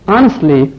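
Honestly said with the h silent, starting on the vowel. Shown as a demonstration. Teacher showing the silent h to students, careful pronunciation. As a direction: say Honestly as onestly, no h sound. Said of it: "اچ تلفظ اینجا نمیشه".

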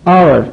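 hour said with the h silent, starting on the vowel. Shown as a demonstration. Teacher giving students a silent h example, careful pronunciation. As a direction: say hour like our, no h. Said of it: "در بعضی از کلمات انگلیسی اچ تلفظ نمیشه".

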